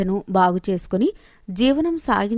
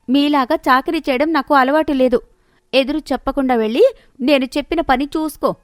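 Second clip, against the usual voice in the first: lightly voiced haughty woman, a bit higher; bossy sister-in-law; 5 semitones higher than usual. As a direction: order the junior daughter-in-law about.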